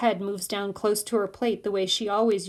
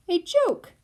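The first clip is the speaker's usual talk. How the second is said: excited whisper; 11 semitones higher, 3 dB louder than usual. A narrator's reading. Narrator's delighted aside about joke.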